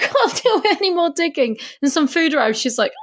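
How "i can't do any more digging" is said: whiny Susan. Retold or imitated.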